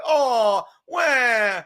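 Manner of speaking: mock whiny Kevin. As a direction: blubber like a pouting child. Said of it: "That's how Kevin does it".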